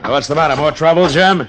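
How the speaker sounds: urgent worried questions; alarmed. Acted. Marshal alarmed at wounded stage driver, urgent rising questions.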